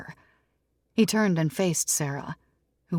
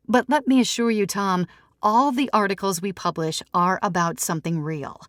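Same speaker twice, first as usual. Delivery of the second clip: higher and louder, steady and assured; lightly voiced Sarah, cool editor; 5 semitones higher, 5 dB louder than usual. Sarah assures Tom her paper is real, firm and raised. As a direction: set him straight, firmly.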